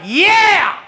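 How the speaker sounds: high, loud eager yell; eager yes. Retold or imitated. Heckler eagerly accepting the wrestler's challenge, loud. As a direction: jump at the dare. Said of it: "he's like".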